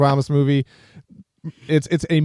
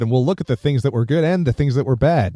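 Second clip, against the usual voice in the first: empty driver interview. Retold or imitated. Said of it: "he said a lot with s-, while saying absolutely nothing".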